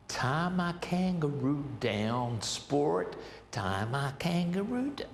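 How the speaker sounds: imitating the singers' put-on American accent; mock American accent. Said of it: "you've gotta have an American accent".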